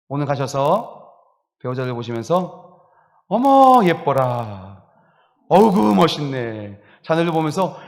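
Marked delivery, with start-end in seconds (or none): 3.3-6.8 admiring gush. Shown as a demonstration. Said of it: "감탄해 보시길".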